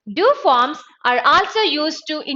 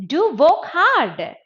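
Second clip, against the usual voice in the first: slower urging, pitch raised; softened command; 5 semitones higher, 3 dB louder, slower than usual. Shown as a demonstration. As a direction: stretch it into a gentler urging.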